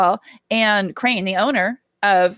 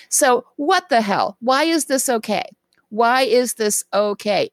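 rant voice. Real, not acted. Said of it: "in my rant voice".

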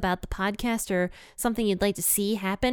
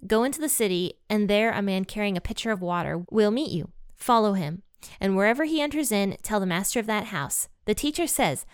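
measured Bible reading aloud, quotes lightly voiced; scripture reading. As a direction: read the passage clearly for listeners. Reads Mark fourteen aloud.

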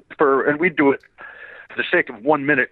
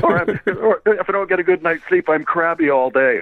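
Wolverine voice; 7 semitones higher than usual. Retold or imitated. Repeats Wolverine line.

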